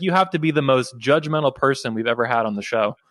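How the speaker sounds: usual speaking voice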